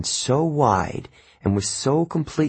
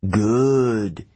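murmured. A narrator's reading. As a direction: murmur it with cold satisfaction. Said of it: "it murmured".

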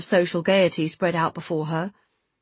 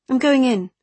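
louder, higher, cross announcement; a touch of annoyance, pitched up; suddenly cross; 6 semitones higher, 5 dB louder than usual. A narrator's reading. Woman leaving her lover on the lawn, cross. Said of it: "feeling suddenly cross with him".

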